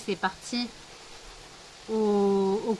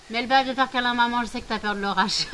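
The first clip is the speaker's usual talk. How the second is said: soothing dog, quick and louder; 2 semitones higher, 4 dB louder, faster than usual. Real, not acted. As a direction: coo at the frightened dog. Comforting scared dog in storm.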